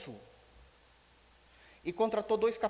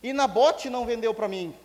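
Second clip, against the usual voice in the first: put-on sulky little kid; 5 semitones higher, 6 dB louder than usual. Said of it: "é um quico, não é?".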